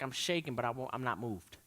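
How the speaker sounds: hushed statement of faith; quiet resolve. Acted. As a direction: say it low and settled, unshaken. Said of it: "we say things like".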